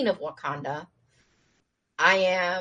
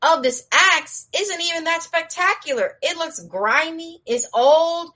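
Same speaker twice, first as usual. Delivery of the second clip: higher, scoffing prince voice; dismissive young prince; 8 semitones higher than usual. Retold or imitated. Prince Tafari scoffing at the old axe, mock dismissive. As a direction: brush the axe off as junk. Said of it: "Tafari, and he's like".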